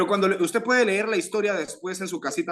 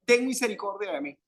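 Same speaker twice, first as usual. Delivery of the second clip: retold euphoric cry; 5 semitones higher than usual. Blind man calls to Jesus for mercy, imitated high cry. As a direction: imitate a desperate plea without really shouting. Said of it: "Comenzó a gritar eufóricamente".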